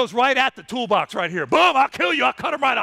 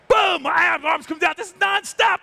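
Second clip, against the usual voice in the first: boom; 5 semitones higher than usual. Real, not acted. Lion fight, punchy exclamation.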